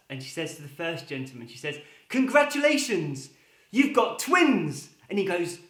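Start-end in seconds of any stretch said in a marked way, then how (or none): 2.1-4.9 high, bright announcement of twins; cheery nurse. Acted. Nurse tells first father he has twins, chirpy and high. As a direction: beam the good news, drawing out twins.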